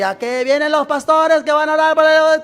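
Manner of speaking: high, loud sentry's announcement; guard calling out. Retold or imitated. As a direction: pass the word on like a sentry calling out. Guardia avisa a gritos. (guardia voceando, agudo y fuerte)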